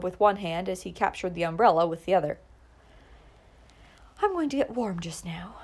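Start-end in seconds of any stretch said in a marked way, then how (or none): 4.2-5.6 odd little laugh. A narrator's reading. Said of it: "Clara replied with an odd little laugh".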